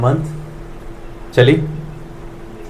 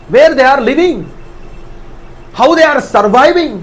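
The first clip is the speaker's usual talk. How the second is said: Nehemiah's anguish; 10 semitones higher than usual. Acted. Preacher voicing Nehemiah grieving over his people, anguished. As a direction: cry out as a broken-hearted leader for his people. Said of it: "తన్ను తాను control చేసుకోలేకపోయాడు".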